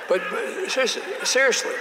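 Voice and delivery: insistent high seriously; emphatic seriously. Real, not acted. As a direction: lean hard on seriously.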